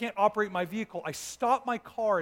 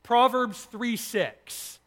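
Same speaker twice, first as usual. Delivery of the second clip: slow voice of God; 3 semitones higher, 5 dB louder, much slower than usual. Retold or imitated. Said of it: "an audible voice said".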